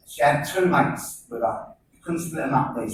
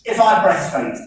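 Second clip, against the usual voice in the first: mock old lady; 11 semitones higher, 3 dB louder than usual. Old wife asks to breastfeed.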